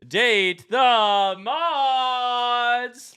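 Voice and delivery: big showy host delivery with stretched key words; hammy game show welcome. Pretend. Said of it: "the voice that I'm doing right now".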